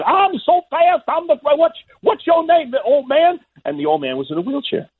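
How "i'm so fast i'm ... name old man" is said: high-pitched, boastful champ impression; Muhammad Ali. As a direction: launch the brag way up high, then challenge the listener. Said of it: "he starts again".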